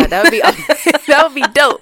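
laughing while saying it. Real, not acted. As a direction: giggle through the words. Laughing over good news.

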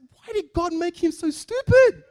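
put-on high, loud, slow Indian accent. Coworker asking why God made Adam stupid, Indian accent. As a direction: drag it out in a pronounced Indian accent. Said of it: "With a very pronounced Indian accent".

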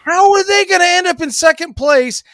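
high, loud disbelief; how could that happen; incredulous. Real, not acted. Host incredulous at projection.

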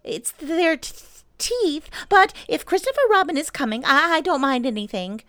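high, stammering timid squeak; nervous confession building to brave haste; earnest. A narrator's reading. Piglet puts his trust in Christopher Robin, high and earnest. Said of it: "said Piglet earnestly".

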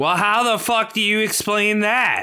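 high-pitched angry challenge; exasperated demand. Acted. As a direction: demand an explanation, incredulous. Demands explanation from rival.

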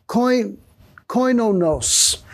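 slow, syllable by syllable: "koinonos" as koy-no-NOSE; careful Greek pronunciation. Shown as a demonstration. Pastor teaching the congregation the Greek word, slow and careful. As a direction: sound out "koinonos" slowly, stopping after "koin-". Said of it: "the word koinonos".

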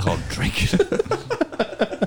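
very slow, high-pitched film impression; Daniel Day-Lewis. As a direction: stretch every word in a hammed-up movie-character voice. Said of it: "Daniel Day-Lewis".

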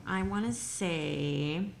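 mouth full. Real, not acted. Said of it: "I'm eating edamame and I'm having trouble with it".

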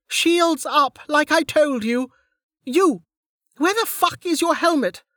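high, angry commander's yell; shouted orders. A narrator's reading. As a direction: bawl out a careless soldier. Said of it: "Lin shouted".

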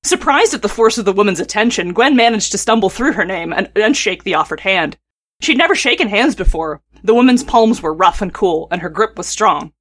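measured read-aloud storytelling; story narration. A narrator's reading. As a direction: read the tale evenly, phrase by phrase.

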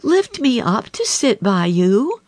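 demanding frog. A narrator's reading. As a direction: insist on being lifted.

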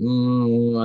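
imitated drawn-out "mm" of indecision; hesitant humming. Actor retells wavering over the accent offer, hesitant hum. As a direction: hum and haw as if unsure. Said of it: "I was humming and hawing".

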